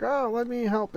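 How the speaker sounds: sly witch offering help to the trapped man; mock sweet witch. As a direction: play the wicked witch pretending to be kind. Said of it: "she's like".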